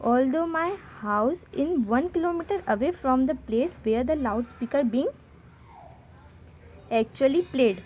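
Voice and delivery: slow, careful dictation pace; slow read-aloud. Shown as a demonstration. Teacher reading the sample letter to students, slow dictation. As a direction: read each English word out slowly for the class.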